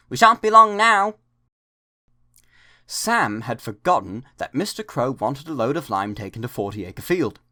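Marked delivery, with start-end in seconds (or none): 0.1-1.1 happy chuffing call. A narrator's reading. Engine nearing home at night, happy call. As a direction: sing out the crossing name like a contented engine. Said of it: "he chunted happily".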